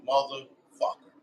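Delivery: slow, drawn-out swear; slow curse under mild shock; stunned curse. Retold or imitated. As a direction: draw the curse out in disbelief. Stunned reaction to the boom.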